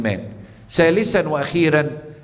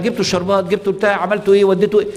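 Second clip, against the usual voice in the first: lightly imitated nagging, higher-pitched rapid-fire questions; fussing bride's mother; 3 semitones higher, faster than usual. Mother of the bride checking on wedding errands, mock fussing. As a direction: pester everyone with a string of raised, mock-anxious questions.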